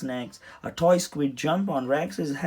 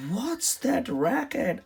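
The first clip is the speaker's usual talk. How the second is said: higher, slow, alarmed captain; gruff captain; 10 semitones higher, slower than usual. A narrator's reading. Captain startled by the drain noise, slow alarmed question. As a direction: demand it like a startled sea captain. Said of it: "asked Captain".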